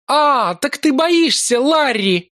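high, mocking and gleeful; devilish glee. A narrator's reading. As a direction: gloat over his fear. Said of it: "Дьявольское ликование прозвучало". (дьявольское ликование)

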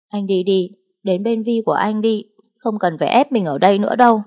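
a hurt, angry cry; bitter outburst. Acted. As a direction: push him away in anger. Bitter outburst sending him away.

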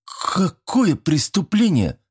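put-on high, slow, scared boy's question; frightened. A narrator's reading. Frightened boy asks the teacher about the crime, high and slow. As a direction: let fear push the voice up. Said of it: "более испуганным голосом".

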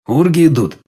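ordinary delivery, nothing marked

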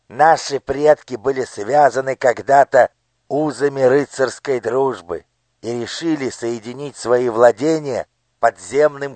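high, commanding minister's voice; a cold lord issuing orders to his daughter; scheming minister. Acted. Minister explains tunnel. (властный голос министра)

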